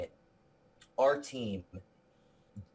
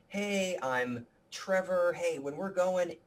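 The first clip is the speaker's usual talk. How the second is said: higher-pitched, drawn-out friendly hello; lightly acted, higher-voiced welcome to put someone at ease; friendly greeting; 7 semitones higher, slower than usual. Film-maker greets a client setting up, friendly and higher.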